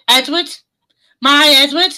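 hammed-up Scouse accent. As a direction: answer in a put-on Scouse voice. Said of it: "I was talking like that".

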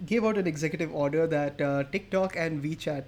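formal news-anchor read; newscaster voice. Acted. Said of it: "why am I talking like a newscaster?".

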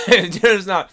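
loud, high hammed-up Australian reassurance; imagined scammer luring him in a mock Australian accent. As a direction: sell the scam in a cheesy Australian accent. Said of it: "Aussies are ... mate".

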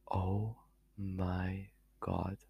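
soft, near-voiceless gasp; dismayed whisper. Real, not acted. To herself, staring at her eyebrow, whispering. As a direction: barely breathe the words out.

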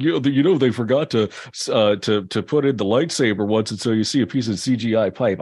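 Star Wars geek. Retold or imitated. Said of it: "like, Star Wars, uh, geek who is like".

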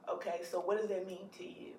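gentle counselor hush. Retold or imitated. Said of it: "my follow-up question always is".

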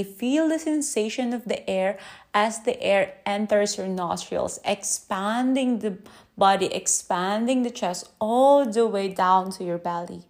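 lightly calm, measured meditation guidance; guided breathing. Acted. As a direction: ease listeners gently through each breath. Leads a breathing exercise.

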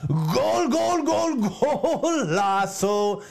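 shouted excited goal call; frantic mock sports commentary.

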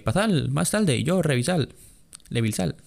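mock Chinese accent, lightly done. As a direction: imitate a Chinese shopkeeper's Spanish. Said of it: "esa es mi imitación de acento chino".

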